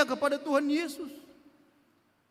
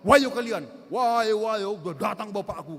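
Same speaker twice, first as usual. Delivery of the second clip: put-on kid's triumphant, much louder taunt that fades at the end; child shouting at bullies now that his dad is here; 5 semitones lower, 4 dB louder than usual. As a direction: crow it at the bullies, then let it drop. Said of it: "katanya kan".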